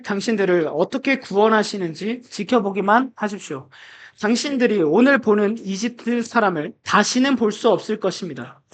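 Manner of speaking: measured congregational Bible reading; deliberate recitation for a group to follow; scripture reading aloud. Acted. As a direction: read the verse out formally, phrase by phrase.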